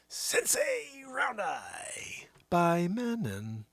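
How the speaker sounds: slow breathy-free whisper, like a perfume ad; slow whispered tagline. Acted. Announcing Sensei Round Eye like an ad, whispered slowly.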